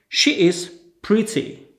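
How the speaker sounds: slow, carefully spaced words for a class; slow model sentence. Shown as a demonstration. Teacher to Polish students, slow clear model sentence. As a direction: say it slowly so learners can copy. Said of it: "To powtórzmy jeszcze raz".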